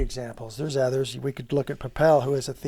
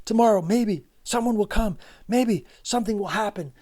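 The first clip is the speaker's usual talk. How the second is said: higher and louder, full of hope; hopeful tone; 5 semitones higher, 4 dB louder than usual. Acted. Teacher contrasts Nastya's hopeful words, higher and louder. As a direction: read it like a spark of hope. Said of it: "the tone of her language, how different it is".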